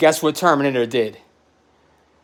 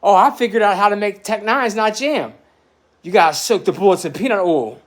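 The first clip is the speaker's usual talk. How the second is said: bragging; 6 semitones higher than usual. Retold or imitated. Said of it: "I was bragging about how".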